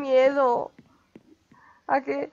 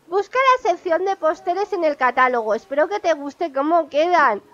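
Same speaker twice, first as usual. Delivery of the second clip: a hint of an easygoing hippie deer; lightly voiced Fauno; 3 semitones higher, 3 dB louder than usual. Reading the hippie deer's call to the player, lightly voiced. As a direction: read the deer's call with a light, friendly touch.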